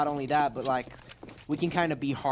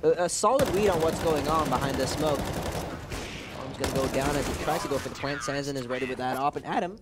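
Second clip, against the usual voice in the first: brisk caster commentary; walk the viewers through the round; esports caster. Acted. Live play-by-play.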